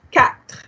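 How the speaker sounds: Quatre with the T and the R both sounded; Quatre, final T and R pronounced. Shown as a demonstration. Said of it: "Pronounce the T, pronounce the R".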